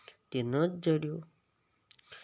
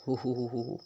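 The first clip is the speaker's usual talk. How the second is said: hoo-hoo laugh; faster than usual. Shown as a demonstration. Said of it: "કૌંસમાં આપેલા શબ્દો કઈ રીતે હસો છો".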